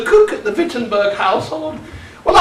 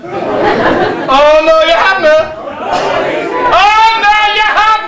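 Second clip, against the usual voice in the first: rising, sing-song panto retort; teasing call-and-response, higher on the repeat; pantomime contradiction; 5 semitones higher, slower than usual. Acted. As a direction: goad the audience into answering back. Pantomime back-and-forth with audience.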